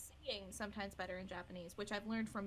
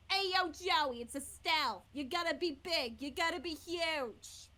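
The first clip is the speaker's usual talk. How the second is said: brash, high, loud New York talent agent; big New York accent, pitched up and pushy; Estelle from Friends; 5 semitones higher, 5 dB louder, slower than usual. Acted. Performer showing off the one accent they keep consistent, brash New York agent impression. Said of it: "the Estelle, because it's based on the New York talent".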